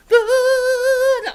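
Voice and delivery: high, loud refusal; man stopping the puppet from singing; firm no. Acted. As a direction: cut the puppet off.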